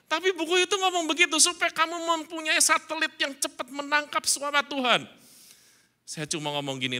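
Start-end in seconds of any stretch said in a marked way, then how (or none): 0.1-5.1 amused excitement. Retold or imitated. Preacher retelling the odd book advice.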